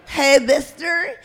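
put-on high, loud, slow, congested kid voice; stuffed-up little girl. Shown as a demonstration. Little girl asking a man directions, stuffed up with a cold. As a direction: talk through a blocked nose, breathing heavily. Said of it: "all stuffed up from a bad cold".

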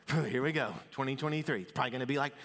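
a mildly jaded, sighing drag; mock weary resignation. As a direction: greet the new year like a chore. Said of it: "it's like".

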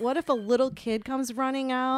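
retold angry yelling. Retelling yelling at him about the parking lot, indignant. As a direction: re-enact a mild indignant yell. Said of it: "I start yelling at him".

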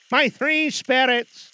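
high, slow, loud spectral lament; slow mournful ghost. Acted. Marley's ghost mourning to Scrooge. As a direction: stretch it out like a suffering spirit.

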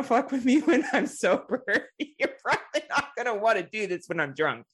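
high boast broken up by laughter; giggly mock threat; laughing. Real, not acted. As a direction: warn them while cracking up. Laughing while boasting about drunk self.

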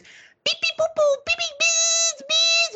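very high, piping electronic beeps; imitated detector beeps. Teller mimics beeps heard in the bedrooms, high electronic beeping. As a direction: squeak out a gadget going off. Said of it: "all I hear is".

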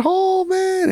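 high-pitched mock groan of disappointment; mock dismay. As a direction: whine it high, hamming up the dismay. Acted dismay as seatmate arrives.

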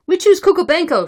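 high, loud nomination; shouted. A narrator's reading. Cossacks nominating their candidate, shouted. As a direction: call the name out from the crowd. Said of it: "shouted some".

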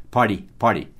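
"Party" with the T as a tapped r, "pɔdi"; flapped T. Shown as a demonstration. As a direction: tap the T in "Party" like an r. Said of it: "Esse T aí tem som de ra". ("Party" com T de som de r)

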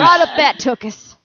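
loud high cowboy geezer; old prospector. Pretend. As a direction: crow it like an old coot.

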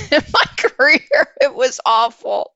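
helpless laughter through the words; laughing. Real, not acted. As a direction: crack up while owning the disaster. Laughs at her own career flare-out.

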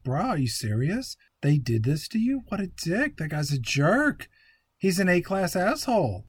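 indignant bro impression, swooping pitch; a rapper-turned-actor. Movie hero seeing her branded hand, mock-indignant bro. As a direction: play an offended tough-guy bro. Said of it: "and he's like".

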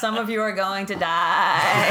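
slow menacing goat-man voice; Billy Goat impression. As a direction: growl it slowly like a creepy goat. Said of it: "his Billy Goat impression".

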